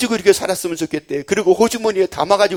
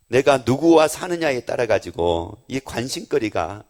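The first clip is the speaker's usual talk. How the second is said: usual speaking voice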